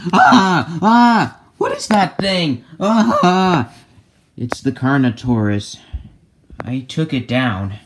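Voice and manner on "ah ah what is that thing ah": high, loud frightened cries; startled screams. Acted. Friends see the fallen dinosaur, startled screams. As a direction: shriek in surprise.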